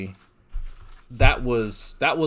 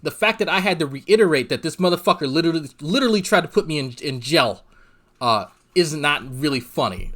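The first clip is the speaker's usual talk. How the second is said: faster and louder, higher, driving the point home; emphatic angry repeat; 4 semitones higher, 4 dB louder than usual. Real, not acted. Streamer repeating himself to chat, fast angry emphasis. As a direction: hammer it again, fast and fed up. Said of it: "I'm just gonna repeat it".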